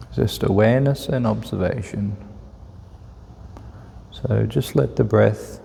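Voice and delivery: calm, unhurried meditation guide with long pauses; measured, even guidance, leaving room to breathe; guided meditation. Real, not acted. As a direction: ease listeners into relaxed breath awareness.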